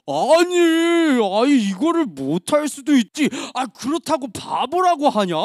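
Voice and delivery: offended friend protesting; half-earnest hurt retort; mildly acted indignation. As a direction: protest with a touch of mock anger. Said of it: "화가 너무 났는지".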